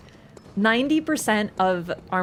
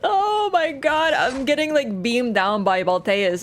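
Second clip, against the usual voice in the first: mock panic; 3 semitones higher, 3 dB louder, slower than usual. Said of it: "panicking retelling".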